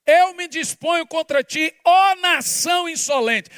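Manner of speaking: booming shout as God; God's rebuke. Acted. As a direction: thunder it down like God rebuking a nation. Preacher voicing God rebuking. (Deus repreendendo, gritando)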